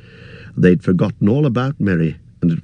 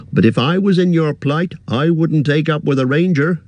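higher, fussy innkeeper voice; chatty innkeeper chattering on, pitched up; 9 semitones higher than usual. Acted. Innkeeper warning hobbit guest, higher fussy voice.

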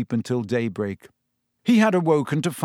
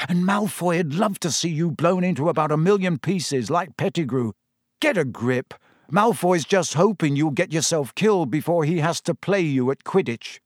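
exasperated friend, pitched a little higher; Ron's voice; 4 semitones higher than usual. Acted. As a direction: scold a friend with mild anger. Ron, angry, scolding Harry.

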